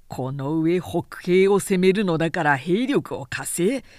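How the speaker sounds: a lightly voiced lord scoffing, then rising in irritation; Cao Cao, scornful. Cao Cao scorns Yuan's letter before his aide, mildly indignant. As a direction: sneer at the letter, anger growing.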